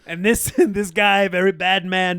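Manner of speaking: hammed-up president repeating "very bad person"; Trump impression.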